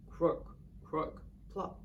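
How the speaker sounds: low croaky frog noise; croaking frog. Acted. Frog sound in story.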